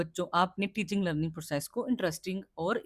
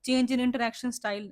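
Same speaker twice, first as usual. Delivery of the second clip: slow heading read; 3 semitones higher, much slower than usual. Shown as a demonstration. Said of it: "reads out the heading".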